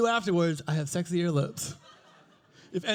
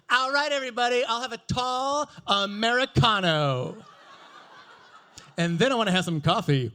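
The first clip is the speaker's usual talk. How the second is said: loud, showy gay man announcing his order; flamboyant entrance; 2 semitones higher, 5 dB louder than usual. Retold or imitated. Man kicking open the Starbucks door calls to the room, loud and showy. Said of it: "the coolest way I've ever seen".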